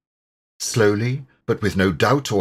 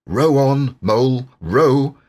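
louder, pressing him to row on; urgent call; 4 semitones higher, 5 dB louder than usual. A narrator's reading. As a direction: call out to keep rowing. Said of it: "urging Mole to row".

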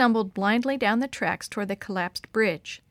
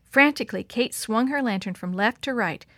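plain reading voice

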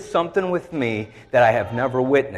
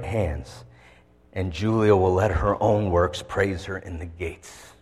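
scripture reading. Acted. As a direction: read each verse as a heartfelt tribute to your wife. Reads Proverbs 31 naming his wife.

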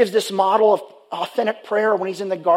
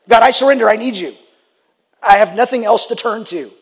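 louder pleading cry to God; desperate cry; 2 semitones higher, 5 dB louder than usual. Retold or imitated. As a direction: call out as if drowning.

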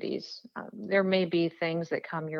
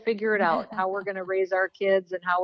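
laughing, higher-pitched retold worry; amused retelling; 4 semitones higher than usual. Candidate retelling her talk with her husband, amused and laughing.

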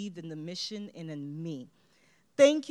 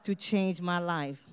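louder, slow, emphatic affirmation; affirmation again; 8 dB louder, slower than usual. Shown as a demonstration. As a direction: lead the room in the vow. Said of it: "Say it with me".

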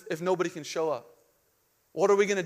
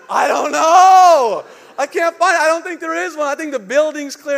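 laughing panic; 9 semitones higher, 12 dB louder than usual. Retold or imitated. Pastor answering the firemen, in high laughing panic. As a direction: laugh helplessly through it. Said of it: "And I'm like".

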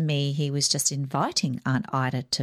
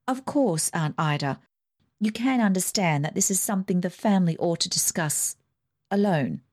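pleasant; 3 semitones higher than usual. Acted. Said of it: "more pleasantly than she had spoken before".

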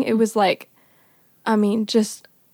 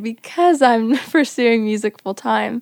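slow, louder, laughing through the words; sheepish laughing confession; 5 dB louder than usual. Retold or imitated. Girl telling her mentor she's skipping college, laughing. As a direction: admit it with a nervous laugh.

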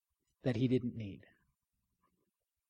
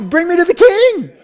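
put-on loud, much higher boyish demand; eager demand; 13 semitones higher, 12 dB louder than usual. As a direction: insist like a bold kid. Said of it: "He's like".

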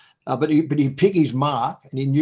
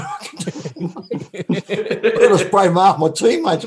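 usual speaking voice

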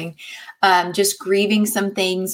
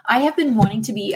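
talking while riding over bumps; on a bumpy road. Real, not acted. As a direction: voice jostled by bumps. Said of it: "oh, sorry about the bumps".

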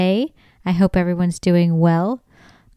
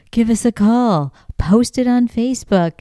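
higher, sing-out sign slogan; sign read-out; 5 semitones higher than usual. Retold or imitated. Reading little Bigfoot signs to listeners, higher announcing tone. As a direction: call it out like a roadside appeal.

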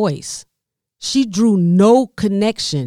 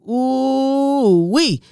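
excited whoop; 7 semitones higher than usual. Real, not acted.

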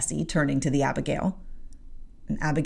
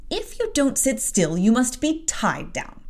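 threatening warning; 8 semitones higher than usual. Acted. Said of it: "said Bessie".

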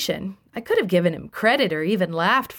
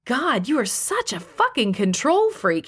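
barked; 6 semitones higher than usual. Acted. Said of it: "he barked back".

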